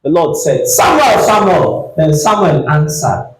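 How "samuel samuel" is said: calling out. Acted. The Lord calling the boy Samuel. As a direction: call the name across the night.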